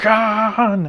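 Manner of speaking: shrill dramatic yell. Retelling how Shatner had to shout a line: imitating Shatner's Khan yell. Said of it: "Shatner tells the story of him trying to".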